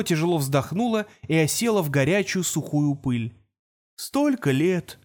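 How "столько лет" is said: slow, drawn-out groan. A narrator's reading. An old robot groaning to strangers, slow and weary. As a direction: moan it out, worn and weary. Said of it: "стонало существо".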